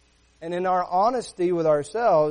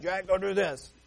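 mock stern order. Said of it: "raise our voice or scream at 'em".

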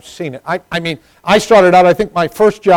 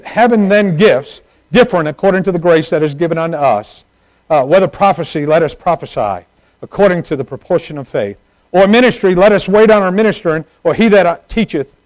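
raised, forceful pulpit reading; preaching scripture; 4 semitones higher, 6 dB louder than usual. Real, not acted. Preacher reading the church its list of gifts, declaiming. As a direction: declaim the verse to the congregation.

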